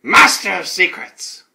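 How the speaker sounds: slow, loud title announcement; dramatic drawn-out announcer delivery; show announcer. Pretend. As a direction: proclaim it like a show's title.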